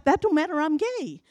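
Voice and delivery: imitated Southern man brushing it off; Southern accent. Bill answers her at the bar, Southern accent. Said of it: "he had a Southern accent".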